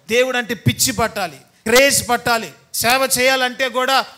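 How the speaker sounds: loud, rising call that God must be a craze; fervent preaching. Real, not acted. Preacher exhorting the church, full-force shout. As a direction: drive it home to the congregation.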